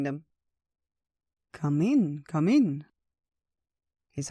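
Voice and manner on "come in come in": lightly voiced host, each "in" pushed up; welcoming old bear. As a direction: invite guests in, a bit of character voice. Old Bear welcomes his guests.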